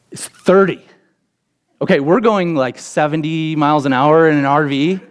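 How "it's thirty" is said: high, tense read of the sign; panicked warning. Retold or imitated. Pops reading the exit speed sign, higher and panicked. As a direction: alarm rising in the voice. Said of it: "the panic in his voice".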